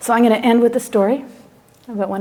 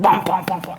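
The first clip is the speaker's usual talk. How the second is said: imitated heavy footsteps.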